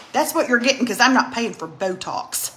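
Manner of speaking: lightly voiced mother's refusal; a hint of a mother putting her foot down; imitated mother. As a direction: quote mom matter-of-factly. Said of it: "that sounds just like her".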